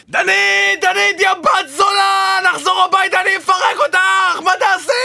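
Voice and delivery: high shouted threats; screaming abuse. Acted. Boyfriend yelling threats at his paralysed girlfriend, high shouting. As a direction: bellow the threats at her, voice up high.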